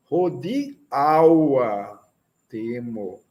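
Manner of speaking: "Rodeaua" with the stress on the second-to-last syllable, "de-A-ua"; stress on the penultimate syllable. Shown as a demonstration. Teacher showing students the Esperanto stress, stressing the penultimate syllable. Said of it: "sílaba mais forte".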